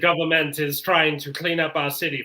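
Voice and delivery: badly faked French accent; terrible French accent. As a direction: put on a hammy French accent. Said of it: "Terrible French accent".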